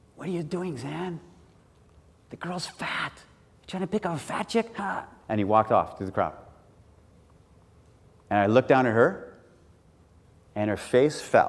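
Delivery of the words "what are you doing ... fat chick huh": high, hushed, carrying stage whisper. Retelling what a man said about a girl nearby: imitating a stage whisper. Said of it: "he says in a stage whisper".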